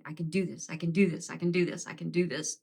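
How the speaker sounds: soft repeated self-reassurance; murmured mantra. Retold or imitated. Steadying herself during the trip, quiet repeated mantra. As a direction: talk yourself through it under your breath. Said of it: "I was saying it actually out loud".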